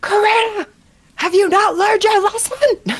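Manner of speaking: very high, ringing, carrying holler. Narrating a game, the speaker as Hawthorne shouts at Karina, first to see her. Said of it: "will shout".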